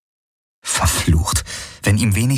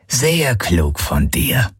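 slow, higher grumble from an alien captor; slow grumbling creature; 5 semitones higher, much slower than usual. A narrator's reading. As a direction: drag the words out like a smug beast. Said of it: "brummte Knochenfresse".

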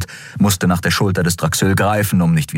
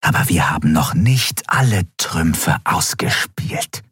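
restrained fury; 2 semitones lower than usual. Acted. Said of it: "ihre Wut zu bändigen".

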